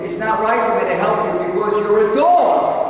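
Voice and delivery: harsh refusal. Retold or imitated. Preacher voicing the one who refuses her, scornful and loud. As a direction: sneer it like a cruel insult.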